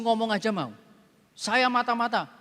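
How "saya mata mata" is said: robotic confession. Retold or imitated. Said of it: "Seperti robot".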